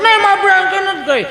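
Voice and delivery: put-on squeaky sulky child voice; whiny child. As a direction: whine the refusal like a spoilt kid. Spoilt child refusing food.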